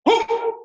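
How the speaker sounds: high, loud "whoo"; explosive exhale shout. Shown as a demonstration. Instructor ending a slow move fast, explosive shout. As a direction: burst of breath on the strike.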